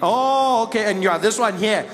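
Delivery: exaggeratedly helpful comprehension; mock realisation. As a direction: let the penny drop with a big drawn "oh". Acted sudden realisation of seat mistake.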